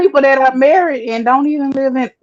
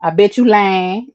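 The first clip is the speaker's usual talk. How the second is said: Southern saying; 3 semitones lower than usual. Shown as a demonstration. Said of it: "or we'll say".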